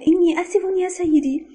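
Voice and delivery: high-pitched, contrite apology; apologetic. A narrator's reading. Member apologises to his stern superior, contrite. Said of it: "وقلت معتذرًا".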